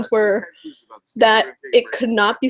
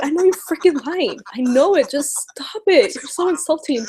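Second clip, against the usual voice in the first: exasperated retort; 5 semitones higher than usual. Retold or imitated. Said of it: "I'm just like".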